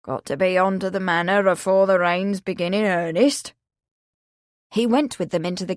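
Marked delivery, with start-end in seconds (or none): 0.0-3.5 lightly voiced rustic old man, steady; old countryman. Old Willie explaining he must go, lightly rustic.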